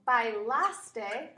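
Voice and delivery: bailaste stretched out very slowly; slow model word. Shown as a demonstration. Teacher models bailaste slowly for students. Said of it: "it's haste".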